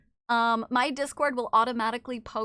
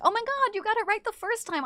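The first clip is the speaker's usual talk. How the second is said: mock amazed fan; 8 semitones higher than usual. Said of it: "people who come in and be like".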